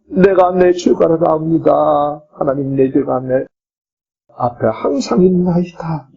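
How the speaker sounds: mild pleading, retold prayer of David; imitated tearful repentance. Preacher voices David begging God for mercy, mildly tearful repentance. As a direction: act out a penitent's plea to God with a touch of sorrow. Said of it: "눈물 흘리면서 회개 기도했다고".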